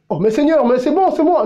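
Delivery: pleading believer. Acted. Believer protests to the Lord.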